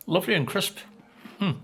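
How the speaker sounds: talking through a mouthful of biscuit; words round a bite of food; mouth full. Real, not acted. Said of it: "Sorry to speak with my mouth full".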